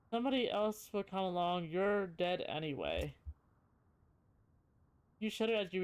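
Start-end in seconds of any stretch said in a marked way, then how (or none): 0.1-3.2 too calm creepy doll. Acted. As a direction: deliver the threat sweetly and calmly. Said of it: "the mouth begins to move".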